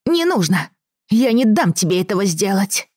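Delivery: put-on high, defiant little boy; defiant child. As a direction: refuse like a spoiled lord. Boy refuses.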